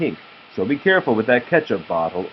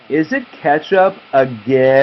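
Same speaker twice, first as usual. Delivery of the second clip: loud piglet cry of dismay; shouted question; 3 semitones higher, 5 dB louder than usual. Acted. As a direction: shout it out in protest.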